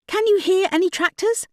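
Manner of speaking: a sharp, high retort; countering. Acted. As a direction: throw the question back at her. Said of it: "countered Pat".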